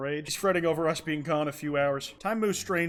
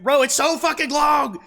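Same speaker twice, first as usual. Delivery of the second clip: loud, slow, high exasperated cry; exasperated yell; 11 semitones higher, 9 dB louder, slower than usual. Real, not acted. Streamer groaning at the endless game, loud and slow. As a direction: drag it out in disbelief.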